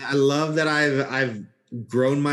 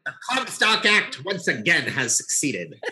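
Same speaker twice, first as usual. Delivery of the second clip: lightly put-on transatlantic accent; old Hollywood transatlantic accent, slightly higher; 4 semitones higher than usual. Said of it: "it's more the transatlantic voice".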